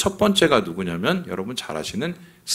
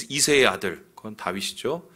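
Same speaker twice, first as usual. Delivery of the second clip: ordinary talk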